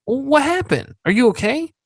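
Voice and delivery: high, surprised, concerned questioning; imitated concern. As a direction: imitate a boss worried about an injury. Boss voiced, concerned about black eye.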